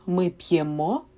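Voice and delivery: п'ємо with the stress on the final мо; stress on the last syllable. Shown as a demonstration. Teacher showing students the moving stress, last syllable stressed. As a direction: lean on the end of п'ємо. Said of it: "the stress is on the last syllable".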